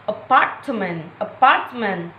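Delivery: "apartment" stressed on PART, falling after; second-syllable stress. Shown as a demonstration. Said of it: "primary stress is on the second".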